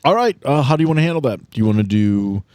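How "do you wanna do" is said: ordinary delivery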